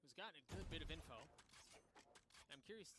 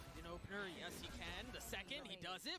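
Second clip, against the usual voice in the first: excited play-by-play; 3 semitones higher, 5 dB louder than usual. Real, not acted. Caster calls a clutch play.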